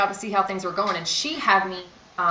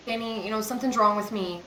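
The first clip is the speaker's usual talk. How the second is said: serious tone; 3 semitones higher than usual. Retold or imitated. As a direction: say it gravely, no joking. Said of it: "in a serious tone".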